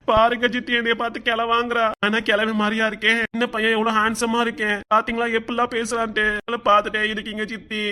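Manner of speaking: whiny tearful complaint; hammed-up crybaby wail; mock crying. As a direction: put on a sobbing tattle to an aunt. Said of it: "நீ அழுதுட்டு இருக்க?".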